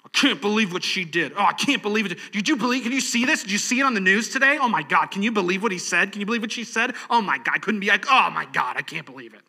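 hammed-up disbelief at the news; a touch of breathless gossip; outraged gossip. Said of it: "pundit makes a decision you disagree with".

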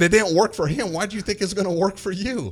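high, loud, laughing-edged lecture to a son; amused scolding. Retold or imitated. Dad telling his son the trick got Lasorda ejected, loud and high. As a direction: belt it out, half scolding, half delighted.

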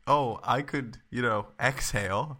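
mocking imitation. Host mimicking the guest's silly reasoning, mocking. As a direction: spell it out slowly as if to an idiot.

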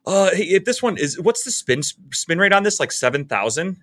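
mock a know-it-all golf nerd; high, eager imitation of a golf nerd. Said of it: "and he's like".

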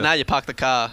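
playful put-on Boston accent; mock Boston accent, teasing. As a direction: drop the R's like a Bostonian. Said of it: "whole life up in Boston".

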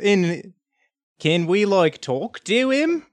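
put-on halting retry at a Boston accent, "talk to him" slow and rising high; badly faked Boston accent, stretched into a high question. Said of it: "bad at speaking in a foreign accent".

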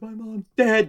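high-pitched imitated heckler comeback; mock upset heckler; retold retort. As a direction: throw it back, pitched well up.

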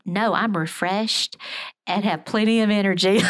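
delighted she can't hold back a laugh; laughing through the quote. Retold or imitated. Mother repeating her son's answer, laughing as she does. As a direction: quote him while a laugh breaks in.

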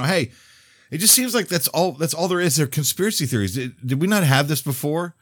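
lightly acted, high-pitched protest; puzzled objector. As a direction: raise the pitch to voice someone else's objection. Voicing people's puzzled objection.

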